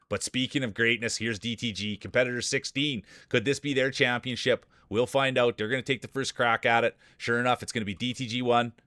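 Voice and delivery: lively play-by-play calling the field; race announcer. Acted. Streamer calls the marble race field, announcer style. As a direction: call the race like a sportscaster.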